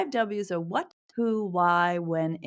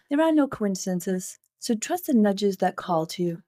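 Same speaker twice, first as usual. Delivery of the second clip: measured, welcoming intro read; scripted podcast intro. Acted. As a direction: read a prepared opening to listeners, phrase by phrase. Reads the show's scripted intro.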